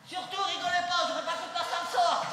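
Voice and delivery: giggling through the words; can't hold the laugh in. Real, not acted. Kid telling joke, laughing. (en pouffant de rire)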